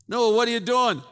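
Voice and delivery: high, loud jeering voice; shouted mockery of a scoffer; mocking townsman. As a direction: taunt Noah from the crowd. Mocking townspeople question Noah.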